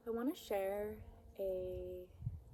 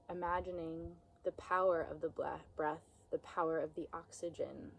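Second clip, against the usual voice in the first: unhurried, soothing meditation voice; guided meditation. Acted. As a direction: guide them gently, with long pauses between phrases. Leads a guided breath meditation.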